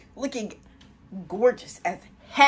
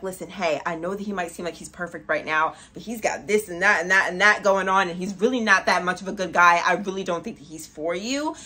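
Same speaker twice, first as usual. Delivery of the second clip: gentle warning; 4 semitones lower than usual. Pretend. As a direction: ease in like a caring friend. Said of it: "trying to warn".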